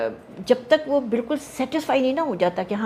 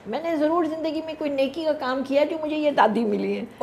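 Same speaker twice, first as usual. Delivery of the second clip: higher, lightly voiced grateful young man; grateful young director; 8 semitones higher than usual. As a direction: quote him with a touch of heartfelt thanks. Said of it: "کہتا ہے". (ہلکی سی شکرگزار نوجوان کی آواز)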